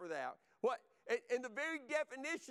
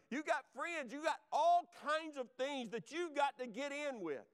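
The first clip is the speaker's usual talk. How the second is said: raised, insistent sermon exhortation; fervent preaching; 2 semitones higher than usual. Real, not acted. Preacher urging the church into battle, fervent exhortation. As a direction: drive each charge home to the congregation.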